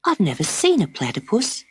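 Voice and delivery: hint of a young girl wondering; lightly voiced little girl. Dot's voice.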